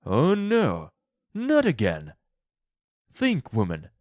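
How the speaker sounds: loud, dismayed protest; exasperated husband pleading loudly; alarmed cry. A narrator's reading. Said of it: "Mister White cried".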